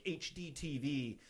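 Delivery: mildly sarcastic list of gadgets; retold sarcastic patter. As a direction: reel off the letters with mock importance. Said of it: "kind of sarcastically being like".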